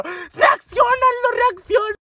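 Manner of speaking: high-pitched urgent shout; panicked shouting. Retold or imitated. Sister slapping paralysed Aldo, shouting in high-pitched panic. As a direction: yell to jolt someone awake.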